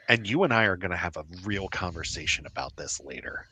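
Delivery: low urgent whisper. Acted. Whispered warning.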